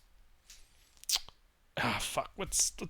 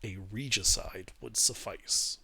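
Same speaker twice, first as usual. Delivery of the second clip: draconic voice; slower than usual. Acted. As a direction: speak slowly like an ancient dragon. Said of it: "Zinnervan puts on, like, a draconic voice".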